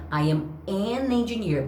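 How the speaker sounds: an glued smoothly onto engineer, no break; linked an. Shown as a demonstration. Teacher showing students an linked to engineer. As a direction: run an straight into engineer. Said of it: "Pra grudar".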